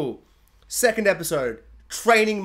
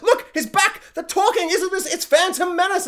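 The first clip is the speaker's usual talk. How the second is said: much higher, gushing mock fan; mock fan excitement; 11 semitones higher than usual. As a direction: sell the cameo like a giddy fan, tongue in cheek. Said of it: "it was like".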